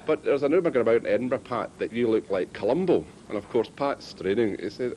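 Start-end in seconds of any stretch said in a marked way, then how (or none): 0.0-3.0 quick mock Irish caller; put-on Irish accent. Prank caller teasing Pat about Columbo, put-on Irish accent. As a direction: slip the rumour in with an Irish accent. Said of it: "he put on this Irish accent".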